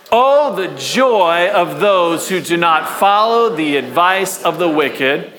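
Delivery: slow, measured read-aloud for a crowd to follow; congregational scripture reading. Real, not acted. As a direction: lead the room in reading, stretching each phrase.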